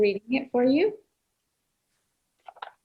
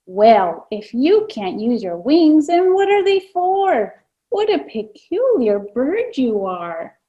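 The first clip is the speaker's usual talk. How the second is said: peka peka; 4 dB louder than usual. Acted. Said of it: "peka peka ... asked".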